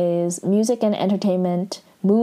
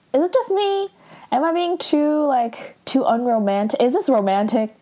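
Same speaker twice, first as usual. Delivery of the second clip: incredulous question; 6 semitones higher than usual. Real, not acted. Asking viewers, incredulous.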